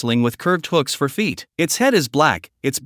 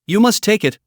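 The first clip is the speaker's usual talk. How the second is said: firm insistence; 6 semitones higher, 3 dB louder than usual. A narrator's reading. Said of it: "Old Three insists".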